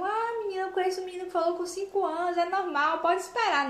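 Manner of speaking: breezy know-it-all neighbor; gossipy neighbor. Retold or imitated. Neighbor brushing off a mother's worry, high and fast. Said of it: "e o vizinho".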